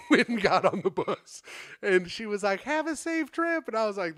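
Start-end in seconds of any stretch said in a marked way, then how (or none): 2.6-3.7 high, sweet mock goodbye; lightly voiced caring lady; sweet farewell. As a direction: send him off like a mother.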